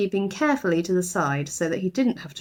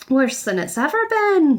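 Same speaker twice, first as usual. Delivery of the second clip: grumbling housekeeper; 7 semitones higher, 4 dB louder than usual. A narrator's reading. Mrs Bird complaining.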